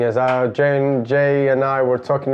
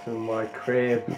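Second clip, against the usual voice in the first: slow, much softer drawn-out correction; 8 dB quieter, much slower than usual. Pretend. Friend correcting the barber's joke, slow and soft. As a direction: mutter it slowly under the laugh.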